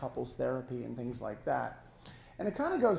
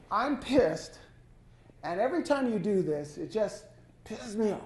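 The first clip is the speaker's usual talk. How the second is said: mock complaint; 4 semitones higher than usual. Shown as a demonstration. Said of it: "versus saying".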